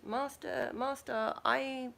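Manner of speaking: high, urgent servant cry of master; a frantic servant alerting his master; voiced panicky servant. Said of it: "And the servant goes".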